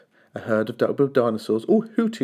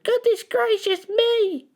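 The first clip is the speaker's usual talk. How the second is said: much higher, slow astonished cry; mother shocked by the water monster; shocked exclamation; slower than usual. A narrator's reading. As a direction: gasp it out, aghast.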